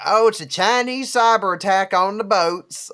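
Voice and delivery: high, loud mocking voice; mocking quote. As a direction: parrot the alarmist crowd. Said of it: "Everyone's like".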